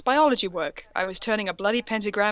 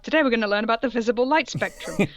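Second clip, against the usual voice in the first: mock teacher; 2 semitones higher, faster than usual.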